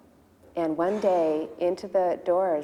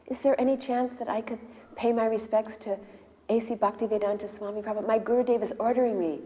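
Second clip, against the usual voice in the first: earnest request, voice raised a little; polite plea; 4 semitones higher than usual. Retold or imitated. Waiting man asking a girl to pay his respects, earnestly pleading. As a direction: plead courteously to be let in. Asks girl humbly for entry.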